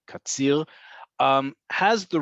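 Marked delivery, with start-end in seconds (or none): 0.1-0.7 Katzir with a throaty uvular R at the end; guttural Resh. Shown as a demonstration. Teacher listing ways to say Resh, guttural R in Katzir. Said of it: "you can say Katzir".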